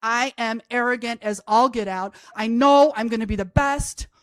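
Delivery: plain reading voice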